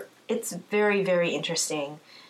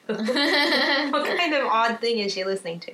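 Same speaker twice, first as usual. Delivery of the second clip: high, slow, laughing puzzled question; laughing mock onlooker; 6 semitones higher, slower than usual. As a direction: play a baffled driver, laughing. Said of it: "must be thinking".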